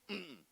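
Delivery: closed-mouth sulky grunt. Retold or imitated. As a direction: grunt it like a sulking boy. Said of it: "Just grunt, grunt".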